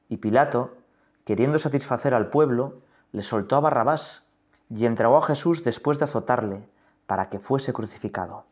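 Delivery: measured, solemn reading of the Passion; scripture reading. Acted. Priest reading the Passion to the congregation, solemn. Reads Gospel passage in meditation.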